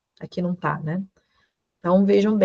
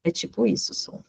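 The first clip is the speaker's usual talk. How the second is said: softer, breathy explanation of the PF sound; soft demo; 7 dB quieter, faster than usual. Shown as a demonstration. Teacher softly showing the PF sound. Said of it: "Sabe quando a gente vai".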